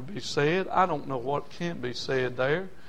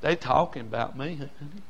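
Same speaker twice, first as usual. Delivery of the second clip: softer and softer, nearly hushed; hurt and soft to wife; 3 semitones higher, 6 dB quieter than usual. Retold or imitated. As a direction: confide to his wife, wounded. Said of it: "told his wife".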